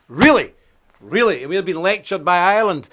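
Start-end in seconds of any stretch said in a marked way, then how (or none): 0.1-0.5 loud sarcastic disbelief; incredulous. Real, not acted. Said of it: "repeats the word, mocking". 1.0-1.4 flat sarcastic repeat. Real, not acted. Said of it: "repeats the word, mocking".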